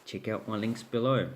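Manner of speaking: talking through a yawn; sleepy, mid-yawn delivery. Real, not acted. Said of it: "Gee, I keep yawning".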